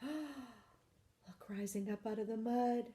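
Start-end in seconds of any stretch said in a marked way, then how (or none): 0.0-1.5 gasp of surprise. Acted.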